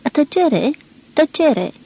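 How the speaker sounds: put-on young lady calling from the doorway; shouting for silence. A narrator's reading. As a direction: call the room to silence. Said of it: "strigă din pragul celelalte odăi".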